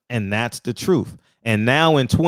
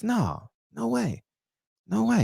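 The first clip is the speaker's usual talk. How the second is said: mock shocked squeal; 11 semitones higher, 6 dB quieter than usual. Mocking critics who deny racism, high scandalized squeal.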